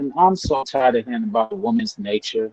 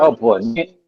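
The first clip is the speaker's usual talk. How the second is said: muffled choppy call audio; bad headset, voice dropping out; underwater. Real, not acted. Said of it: "Sound like you're underwater".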